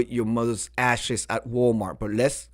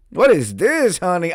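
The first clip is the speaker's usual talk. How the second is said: Nene Leakes; 5 semitones higher, 6 dB louder than usual. Pretend. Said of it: "I heard Nene Leakes when you said that".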